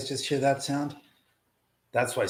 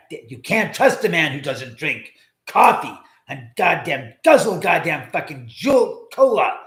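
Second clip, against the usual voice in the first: hammed-up rant; 4 semitones higher, 5 dB louder than usual. Over-the-top caffeine preacher rant.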